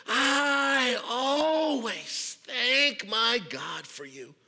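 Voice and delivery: very slow, drawn-out grateful voice; cheerful thanks. Acted. Paul thanking the Corinthians, cheerful and grateful. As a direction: savor each word of thanks. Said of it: "very cheerful, very happy".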